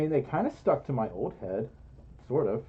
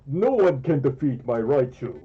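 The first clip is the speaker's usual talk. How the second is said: imitating the lieutenant; 3 dB louder than usual. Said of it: "And he talked like this".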